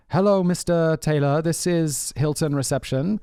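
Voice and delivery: a hint of a formal desk clerk voice; mock receptionist. Prank caller posing as hotel reception to friend, lightly put-on polite voice. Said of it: "I'm like".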